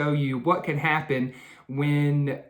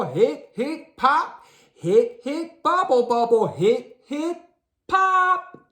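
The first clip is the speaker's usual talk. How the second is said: hippo with hiccups; 7 semitones higher than usual. A narrator's reading. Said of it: "The hippo said".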